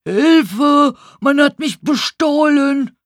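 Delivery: high, loud alarmed shout; old man's high-pitched holler; loud cry for help. A narrator's reading. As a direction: call out for help, robbed and frantic. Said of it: "hörte ich jemanden laut rufen".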